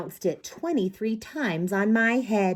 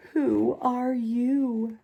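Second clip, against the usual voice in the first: put-on scared kid; 5 semitones higher, much slower than usual. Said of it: "as I asked".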